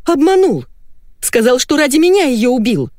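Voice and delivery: betrayed wife yelling at her husband; furious screaming. A narrator's reading. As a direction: scream every line at the liar.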